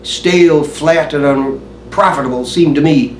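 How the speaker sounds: measured, brooding stage monologue; Hamlet soliloquy recitation. Acted.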